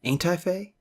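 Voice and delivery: Ain't I fay as a silly pun on the name; playful mispronunciation. Shown as a demonstration. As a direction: toy with the sound of the word. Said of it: "I'm not even sure I'm saying that right".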